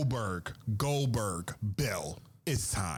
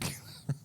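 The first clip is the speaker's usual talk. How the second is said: breathy laugh; 6 dB quieter than usual. Real, not acted. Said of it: "I can't even talk with a straight face".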